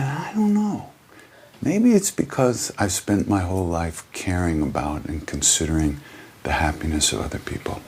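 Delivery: lightly voiced Dalai Lama answering a questioner; gentle Dalai Lama. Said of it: "He said".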